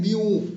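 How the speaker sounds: म्यू drawn out with a long vowel; stretched syllable. Shown as a demonstration. Teacher shows students the stressed syllable, म्यू stretched out. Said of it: "जिसको हम खींच करके पढ़ रहे हैं".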